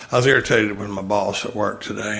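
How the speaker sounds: put-on a light, understated Alabama accent. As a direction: lightly imitate a friend from Alabama. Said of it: "I'll do my best shot at Alabama accent".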